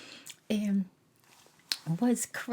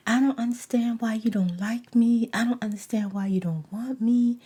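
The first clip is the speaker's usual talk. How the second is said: mock pleading; 5 dB louder than usual. Quoting his pleading.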